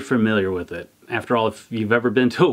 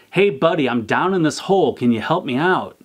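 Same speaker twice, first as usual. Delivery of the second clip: higher call, pleading up from a hole; mild retold yell; 5 semitones higher than usual. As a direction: shout up to a friend for help, lightly acted. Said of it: "Our guy in the hole yells up".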